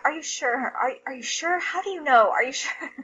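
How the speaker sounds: lightly imitated disbelief, pitch lifting; retold insistent questioning. Mom asking son if he's sure, insistent. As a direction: replay your own repeated doubting questions. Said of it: "I asked him if he was sure, like, seventeen times".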